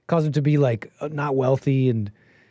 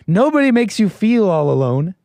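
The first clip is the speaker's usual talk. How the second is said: forceful rebuttal; 5 semitones higher, 5 dB louder than usual. Real, not acted. Arguing against quote.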